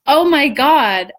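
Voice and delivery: dawning awe; retold amazement; amazed gasp. Retold revelation.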